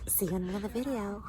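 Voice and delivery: quick, soft mock sign-off; imitating friend's vlogging. Imitating her friend ending a video, soft quick parody. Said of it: "I'm gonna do you so perfectly".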